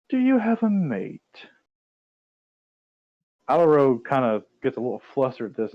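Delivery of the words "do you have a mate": coy question. Acted. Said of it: "and she says".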